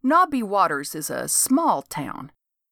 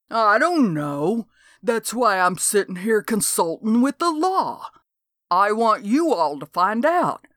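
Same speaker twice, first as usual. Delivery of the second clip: put-on riled old geezer. Old man tells the law what his bones feel, riled. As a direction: grumble your case with conviction. Dode explaining his suspicions.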